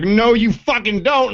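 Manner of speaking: high, slow, mock-outraged reporter; drawn-out high warning from a reporter; indignant reporter. Retelling the reporter shoving a prankster, high slow mock outrage. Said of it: "He's like".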